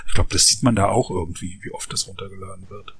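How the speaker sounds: choppy breaking-up phone line; glitchy robotic call. Real, not acted. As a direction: voice cutting out on a bad call. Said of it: "du warst abgehackt".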